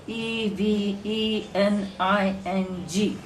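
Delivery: E V E N I N G slowly, each letter named; slow letter-by-letter spelling of E V E N I N G; spelled letter names. Shown as a demonstration. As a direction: spell out E V E N I N G at a slow, even beat. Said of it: "Have I pronounced every letter".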